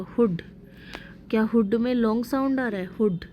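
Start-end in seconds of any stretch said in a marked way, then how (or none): 0.0-0.4 हुड with a short oo; हुड, short vowel before the d. Shown as a demonstration. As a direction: say हुड as a word alone, vowel kept brief. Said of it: "हुड का sound है short".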